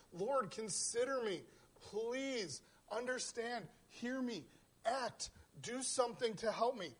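rising, pleading cry to God; pleading prayer. Pretend. Voicing David's pleading prayer.

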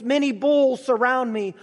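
forceful, emphatic psalm recitation; proclaiming. Retold or imitated. Preacher reads David's lament to the congregation, proclaiming. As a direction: proclaim the lament with mounting urgency. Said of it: "he proclaims".

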